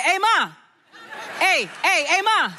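mock kid hollering for Ma; calling out. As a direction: call for your mother's attention. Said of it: "grab my attention or call out to me".

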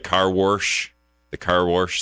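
"wash" said as "warsh"; r added in wash. Retold or imitated. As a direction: put an r before the sh in "wash". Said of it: "That's how number three says it".

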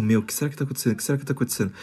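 quiet worried murmur; hushed gossip. Retold or imitated. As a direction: wonder it under your breath. Gossiping friends wondering aloud.

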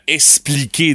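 "expliquer" said as "espliquer"; mispronounced expliquer. Retold or imitated. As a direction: drop the k sound in "expliquer". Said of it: "lui, aime se faire expliquer".

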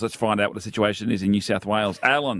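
reporter voice. Real, not acted. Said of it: "That was your very reporter voice then".

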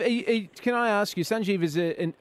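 ordinary talk

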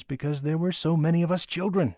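ordinary delivery

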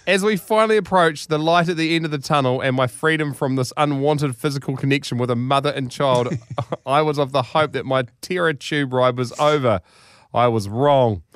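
measured, theatrical read-aloud; deliberate storytelling delivery; story narration. A narrator's reading. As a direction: read it like a grand tall tale.

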